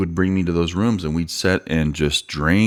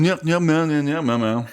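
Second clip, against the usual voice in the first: higher-pitched, unintelligible Cajun mumbo-jumbo; mock a Cajun accent nobody can understand; imitated Cajun accent; 9 semitones higher than usual. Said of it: "I can't even recreate the accent".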